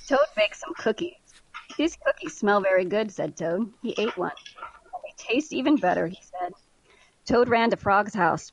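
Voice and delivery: lively, measured storybook reading; expressive story narration with lightly acted dialogue; story read-aloud. A narrator's reading. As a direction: read it like a picture book for kids. Reads children's story aloud.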